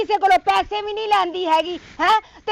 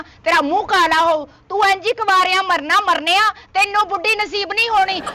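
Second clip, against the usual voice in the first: furious scolding; 3 semitones higher than usual. Acted. Furious at being called aunty.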